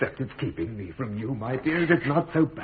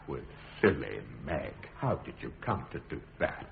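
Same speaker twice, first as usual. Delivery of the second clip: soft whisper, lower; a lower, whispered reproach to his daughter; 11 semitones lower, 10 dB quieter than usual. Acted. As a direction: hush it to her tenderly.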